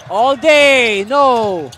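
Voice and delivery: animated basketball commentary, voice lifted; live play-by-play. Real, not acted. Commentator telling viewers of the biggest lead, excited play-by-play. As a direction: call the made three with punch and momentum.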